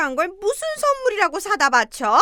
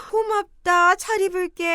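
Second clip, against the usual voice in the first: 1 mocking echo; 2 semitones higher than usual. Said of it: "하라고?".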